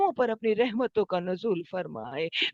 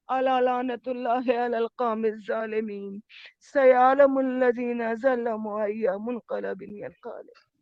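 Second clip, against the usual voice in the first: closing Arabic recitation; 2 semitones lower than usual. Real, not acted.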